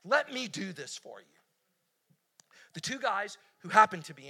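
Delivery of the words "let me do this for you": soft pleading Lot; urging plea. Retold or imitated. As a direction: beg the guests to stay. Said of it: "He urged them".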